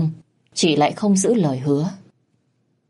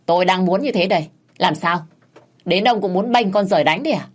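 defiant snap; 3 semitones higher than usual. Acted. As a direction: bite back at him quickly. Wife snaps back at husband.

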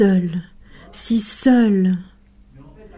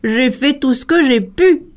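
put-on, defensive animal voice; protesting hyena; 2 semitones higher than usual. A narrator's reading. Hyena defends itself to the cheetah, protesting. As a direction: protest with a rising end. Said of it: "protesta l'hyène".

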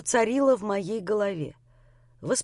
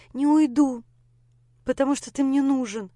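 higher and louder insistence; insistent refusal; 5 semitones higher, 3 dB louder than usual. A narrator's reading. Lera refusing to leave Grisha, insistent. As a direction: refuse firmly.

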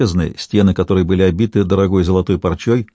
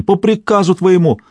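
trembling cry; 10 semitones higher than usual. A narrator's reading. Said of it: "дрожащим голосом выкрикнул он".

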